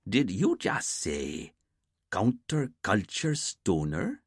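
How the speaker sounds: slow, disbelieving echo of "counterculture stoner"; slow, amused disbelief at the boss; incredulous repeat. Acted. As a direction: hold each word up as if it can't be real. Dwayne incredulous at phrase.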